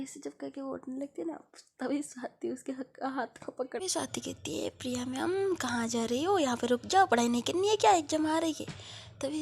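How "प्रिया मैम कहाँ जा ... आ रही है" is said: loud teasing call, louder toward the end; calling after her. Acted. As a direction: shout after her friend to stay. Swati calling Priya back.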